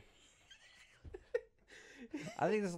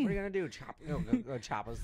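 mobster goat. Retold or imitated. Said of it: "nineteen thirties mobster goat".

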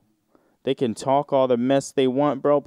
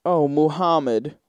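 mock moan; 5 semitones higher than usual. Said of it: "women call out a religion".

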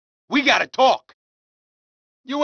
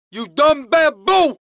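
slow insulting shout; 3 dB louder, slower than usual. Acted. Thug insulting someone.

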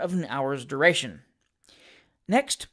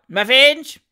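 loud, higher mocking call; called-out jeer; 6 semitones higher, 9 dB louder than usual. A narrator's reading. Gentleman in the crowd calling out, loud jeer. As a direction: yell it from the back of the crowd. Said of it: "called out".

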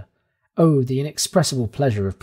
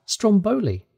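amazed exclamation; 8 semitones higher, slower than usual. A narrator's reading.

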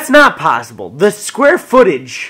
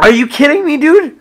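higher and louder outburst; exasperated yell; 10 semitones higher, 5 dB louder than usual. Real, not acted. Roommate fed up with his friend, yelling at him. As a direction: snap it out, fed up.

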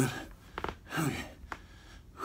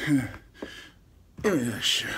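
whispering; 3 semitones lower, 4 dB quieter, much slower than usual. Real, not acted. Mid-workout, grabbing gear.

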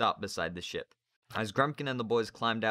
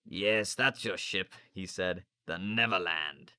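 put-on sneering old teacher; slower than usual. Narrator voices Grumpkin.

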